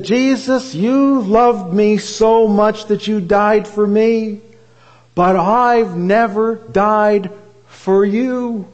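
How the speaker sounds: a hint of a woman praying through tears, drawn out; tearful prayer. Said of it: "she began to weep".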